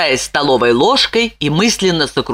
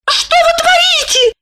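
much higher alarmed woman's cry; frightened Lipochka. A narrator's reading. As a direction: shriek at him in alarm. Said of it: "испугалась она".

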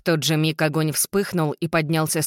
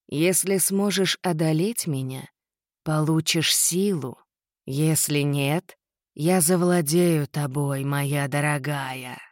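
demonic whisper; slower than usual. Acted. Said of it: "прошипел демон".

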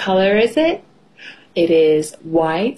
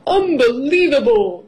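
raised-pitch disbelief; amazed cry; 4 semitones higher than usual. A narrator's reading. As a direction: exclaim in mild astonishment. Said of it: "cries Mister Labrador".

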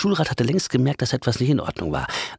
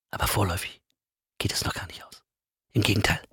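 whispered, much softer aside; ominous hush; 3 semitones lower, 7 dB quieter, faster than usual. A narrator's reading. Narrator lets listeners in on it, whispered. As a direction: whisper it like a secret.

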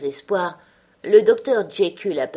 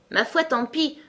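light, higher and easygoing; good-humoured; 8 semitones higher than usual. A narrator's reading. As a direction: shrug it off cheerfully. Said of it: "avec bonne humeur".

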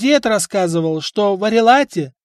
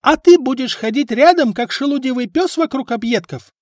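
high, much louder shrill wife's yell; 10 semitones higher, 7 dB louder than usual. A narrator's reading. Wife yelling at husband and apprentices, loud. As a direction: scream at the lazy crew. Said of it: "заорала Эльфрида".

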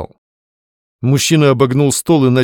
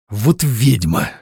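slow, spiteful curse; spat out in anger; much slower than usual. A narrator's reading. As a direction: spit the words after her. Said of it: "выплюнул злобно Твёрдышев".

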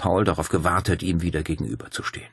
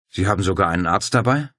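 a quick, mildly surprised question; Paul mildly amazed at the doctor; astonished question; 4 dB louder, faster than usual. Acted. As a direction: caught off guard, ask fast. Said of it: "fragte Paul erstaunt".

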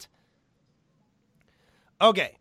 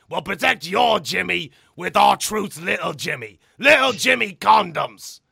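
mock commercial; 5 dB louder than usual. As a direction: sell it like a cheesy TV spot. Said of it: "I made a comedy commercial".

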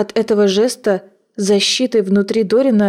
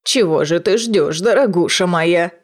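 put-on sweet, coaxing old crone; ingratiating; 2 semitones lower than usual. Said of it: "вкрадчивым голосом спросила старуха".

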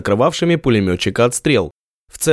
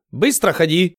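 rushed foreign yell; 6 semitones higher than usual. Acted. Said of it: "заорал".

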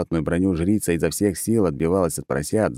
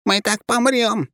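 a hint of a slow, high alarmed redhead; lightly voiced alarmed warning; gloomy forecast; slower than usual. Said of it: "выдала неутешительный прогноз рыжая".

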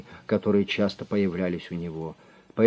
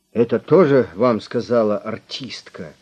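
distrustful; 3 semitones higher, 7 dB louder than usual. A narrator's reading. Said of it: "недоверчиво спросил".

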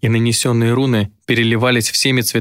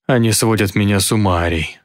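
hoarse whisper. Acted. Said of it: "хрипло прошептал Гидеон".

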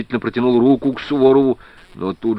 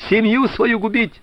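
frantic outcry; 9 semitones higher than usual. A narrator's reading. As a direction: blurt it out in a panic. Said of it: "вдруг выкрикнул ошалело". (ошалело выкрикнуть)

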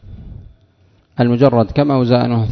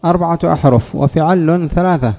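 mock objector; 4 semitones higher than usual. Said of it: "يقول".

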